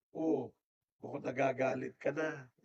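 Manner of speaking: softly retold, unruffled calm; calm mother. Mother answers someone getting angry, calmly. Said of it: "maintain her calmness at sinasabi niya".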